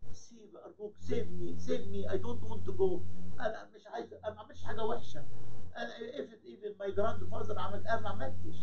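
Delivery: high-pitched, acted-out frantic pleading; cling and beg to be let go; tearful begging. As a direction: protest innocence in a high, whiny plea. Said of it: "وقعد يعيط ومسك طبعًا في سيبا".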